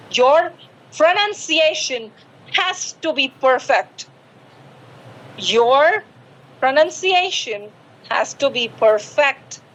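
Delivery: slow, careful foreign-style English accent; deliberate English accent with spaced words; proper English accent. Shown as a demonstration. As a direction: model polished English accent, phrase by phrase. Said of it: "तमीज से accent में बोलेंगे".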